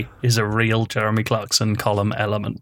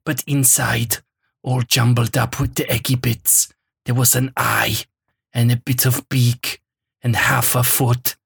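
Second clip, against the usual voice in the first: lightly done German-tinged Herzog reading, grave and deliberate; Werner Herzog voice. Acted. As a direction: read the column like a brooding German documentary narrator. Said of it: "because Werner Herzog's saying them".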